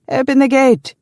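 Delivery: high, loud, jubilant order; joyful shout. A narrator's reading. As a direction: call out the good news in delight. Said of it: "he shouted, his voice full of joy".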